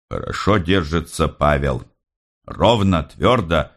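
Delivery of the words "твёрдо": ordinary delivery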